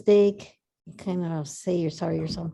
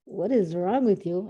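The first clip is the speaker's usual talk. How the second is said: slower, gently puzzled question with a head tilt. Shown as a demonstration. To someone yelling at her, slow gently puzzled question. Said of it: "Giving them that tilt".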